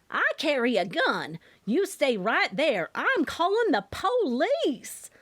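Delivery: put-on an older mother bluffing about a gun, voice climbing as she panics; lightly voiced scared mom, accent laid on thicker. A narrator's reading. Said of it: "Mama's accent was deeper when she was excited or scared".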